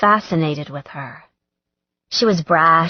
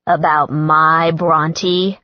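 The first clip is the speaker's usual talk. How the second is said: growl; 3 dB louder, much slower than usual. Acted. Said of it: "Logan's voice was a growl".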